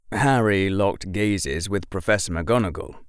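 plain reading voice

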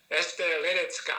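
"Ledecka" stressed on LE, c as ts, ending in ah; correct pronunciation. Shown as a demonstration. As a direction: say "Ledecka" as LE-dets-kah. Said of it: "the C is a T S".

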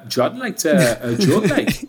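slow mock Geordie line. Friend mimicking the accent the journalist used. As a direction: drawl it like a Geordie. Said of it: "I'm gonna use the accent".

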